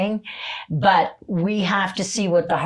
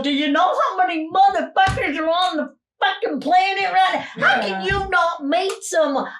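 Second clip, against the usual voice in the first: much higher, incredulous push; exasperated pep talk; 11 semitones higher than usual. Retold or imitated. Sheila urging lonely client to meet people, incredulous and high. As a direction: rouse them out of self-pity. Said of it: "I go".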